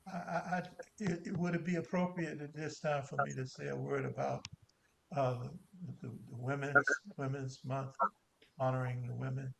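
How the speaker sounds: distant, off-mic voice; speaking away from the microphone; far from mic. Real, not acted. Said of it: "It sounds like you're far away from your microphone".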